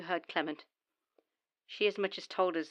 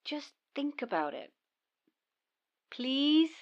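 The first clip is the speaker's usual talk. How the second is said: whispered plea; 5 semitones higher, slower than usual. Acted. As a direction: coax her in a whisper. Coaxing partner to agree.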